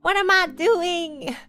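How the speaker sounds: high, loud retold freak-out; dramatized "what am I doing" panic; mock panic. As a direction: act out alarm, stretching the last words. Retold panicked reaction to the form.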